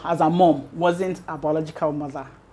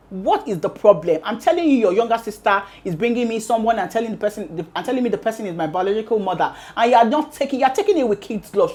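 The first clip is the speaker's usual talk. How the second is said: retold anger; 3 semitones higher than usual. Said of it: "she was angry".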